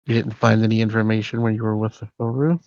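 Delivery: speaking with a covered mouth; muffled. Real, not acted. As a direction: voice muffled, as if through a hand. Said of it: "you're a little muffled".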